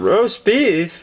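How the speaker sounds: baffled questioning repeat; puzzled echo. Retold or imitated. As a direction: echo it back in mild disbelief. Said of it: "we thought he was trying to have a conversation".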